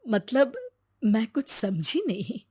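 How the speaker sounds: lightly voiced confused old woman; puzzled grandmother. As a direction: ask like a baffled granny.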